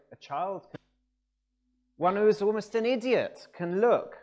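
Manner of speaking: voiced preacher driving the point home; retold country preacher. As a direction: preach it plainly and forcefully, like an untaught lay preacher. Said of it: "I remember how he said".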